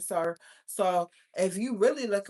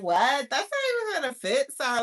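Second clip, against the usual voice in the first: higher, incredulous what and not even finna fit; incredulous mock retort; 4 semitones higher, 4 dB louder than usual. Talking to a man who came up short, incredulous. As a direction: scoff it from the background, high and disbelieving. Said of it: "catch me in the background be like".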